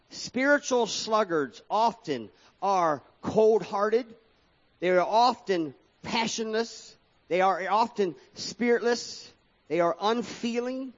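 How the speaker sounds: fiery sermon climax; preaching at full force. Acted. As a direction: build the list up with rising force. Preacher building to a peak.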